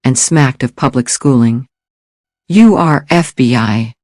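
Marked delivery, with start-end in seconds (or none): 2.5-3.9 slow, spat-out accusation. Acted. Gilhooly accuses the stranger of being FBI, spat out slowly. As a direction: bite off each word, slowly. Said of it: "Gilhooly spat out the words".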